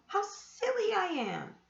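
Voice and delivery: cross with himself. A narrator's reading. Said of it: "he said to himself".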